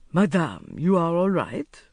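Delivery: polite call of concern. A narrator's reading. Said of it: "he called".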